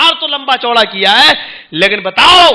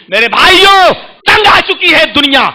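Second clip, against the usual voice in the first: impassioned call; 4 semitones higher, 4 dB louder than usual. Real, not acted. Preacher calls out.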